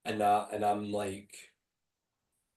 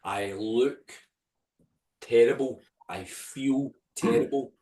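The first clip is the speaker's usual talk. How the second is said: inner thoughts. Retold or imitated. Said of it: "I remember thinking".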